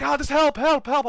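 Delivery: high-pitched calls for rescue; high mock pleading; mimicked help cries. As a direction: imitate trapped friends calling out. Imitating trapped friends again.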